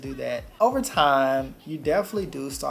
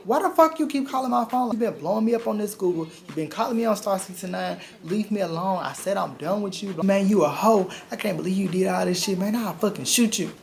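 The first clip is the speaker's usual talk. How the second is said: high, loud, furious yelling into the phone; screaming at him to leave her alone; furious shout; 6 semitones higher, 5 dB louder than usual. Retold or imitated. Angry ex on the phone, shouting him off furiously. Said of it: "I was just like".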